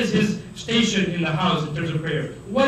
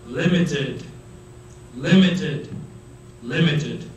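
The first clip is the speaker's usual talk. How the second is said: "limited," "limited," "limited." each set apart by a firm pause; very serious emphasis; 4 semitones lower, slower than usual. Real, not acted. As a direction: hammer home "limited," word by word, with pauses. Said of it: "I'm very serious about emphasizing".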